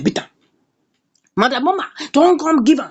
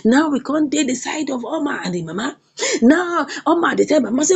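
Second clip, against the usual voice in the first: usual speaking voice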